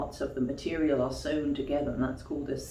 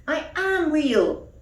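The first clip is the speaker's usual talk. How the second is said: higher, pleading little toy voice; toy rabbit crying out; 13 semitones higher, 8 dB louder, slower than usual. Acted. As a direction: insist it like a hurt little toy. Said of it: "cried the toy rabbit".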